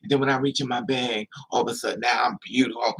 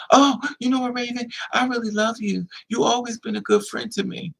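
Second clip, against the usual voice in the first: mock sweet-talk; 8 semitones higher than usual. Girl backpedals after Raven reaches bag.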